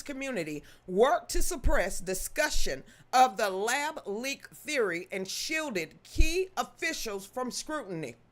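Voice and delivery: animated, emphatic news read; article read-aloud. Real, not acted. Reading Dave's article on declassified files, emphatic news delivery. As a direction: read it out with lifted, punched phrases.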